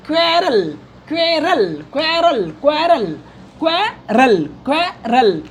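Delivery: क्वेरल drilled as "KVE-ral", stretched and then split; model pronunciation. Shown as a demonstration. Teacher drills how to say the word, model pronunciation. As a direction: repeat क्वेरल carefully as "KVE-ral", pausing between takes. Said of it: "तो क्वेरल कैसे बोलेंगे?".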